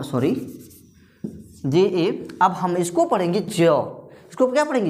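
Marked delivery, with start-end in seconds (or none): 3.4-4.1 जौ with the vowel held; drawn-out जौ. Shown as a demonstration. Teacher reading the full letter to learners, जौ stretched. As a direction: lengthen the vowel in जौ. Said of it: "अब खींच करके पढ़िए".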